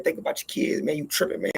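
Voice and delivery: urgent whisper. Retold or imitated. Stepdad calming him in fight.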